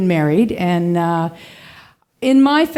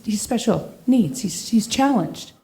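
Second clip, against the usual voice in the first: hushed confiding; 2 semitones lower, 6 dB quieter than usual. Retold or imitated. Best man confiding awkwardly.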